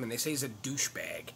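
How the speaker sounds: unvoiced whisper, like sharing a secret. Real, not acted. Whispering gossip about the governor to viewers. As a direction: hush it as if someone might overhear.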